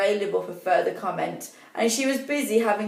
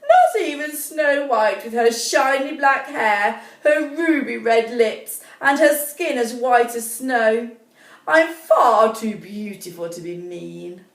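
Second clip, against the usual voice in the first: vain queen; 3 dB louder than usual. Acted. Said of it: "she said".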